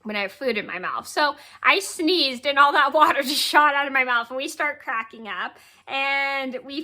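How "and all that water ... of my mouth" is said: laughing through words. Real, not acted. Laughing while retelling.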